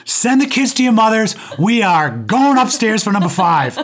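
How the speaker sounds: loud, high jubilant call; triumphant announcement. Retold or imitated. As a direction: announce it like you won the lottery. Retold triumphant announcement to wife.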